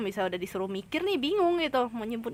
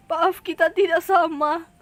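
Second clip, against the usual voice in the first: loud, slow, high and laughing through it; giggling while hamming up a stiff formal phrase; laughing mock quote; 8 semitones higher, 12 dB louder, slower than usual. Streamer jokingly quoting a formal phrase, laughing loudly.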